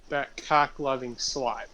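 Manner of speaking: slow, breathy stage whisper of a joke insult; joking whisper. Real, not acted. Player whispering a teasing insult about a sleeping friend, slow whisper.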